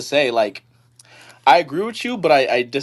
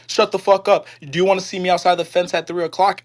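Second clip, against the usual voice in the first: retold threat; 5 semitones higher than usual. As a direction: replay the old man's threat with heat. Steward threatens coworker retold.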